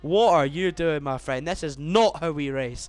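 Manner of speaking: shocked disbelief. Real, not acted. Reacting to a crash on track.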